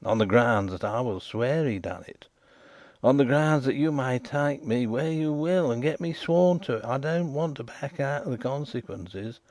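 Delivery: lightly voiced waterside informer, insistent; a rough riverside man pressing his point; Riderhood.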